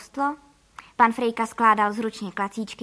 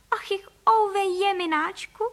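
high, slow, tearful wail; wailing lament; 8 semitones higher, 3 dB louder, slower than usual. Acted. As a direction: moan as if weeping. Mother laments losing home.

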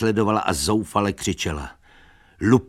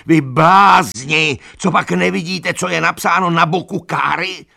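furious shout; 12 semitones higher, 9 dB louder than usual. A narrator's reading. Benjamin stamping and yelling at the animals, furious shout. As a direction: hammer each word in outrage. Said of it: "křičel Benjamin, rozčileně".

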